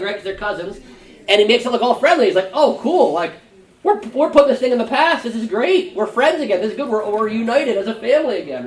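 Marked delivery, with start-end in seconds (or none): 2.5-8.6 high, overly cheerful make-up talk; mock cheerful reunion. Joab pretending the feud is over, mock cheerful. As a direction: sell the fake reconciliation.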